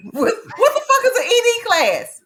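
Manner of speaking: high, loud incredulous outburst; laughing disbelief. Real, not acted. Cast member baffled by the class name, laughing disbelief. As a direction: burst out baffled through laughter.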